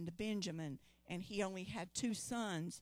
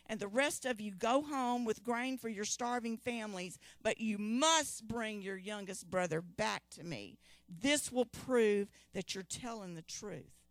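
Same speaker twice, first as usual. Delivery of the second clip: louder, a hint of a firm governor; stern ruler; 4 dB louder than usual. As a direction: lay down the terms with authority. Joseph giving his stern terms.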